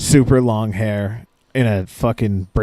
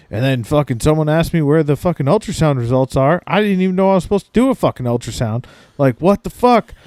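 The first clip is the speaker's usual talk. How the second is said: fast, pitched-up gripe; mock griping; 6 semitones higher than usual. Ultrasound guy complaining to the ladies, retold as fast irritated gripe. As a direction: keep the mock rant going, quicker and exasperated. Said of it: "the ultrasound guy bitching".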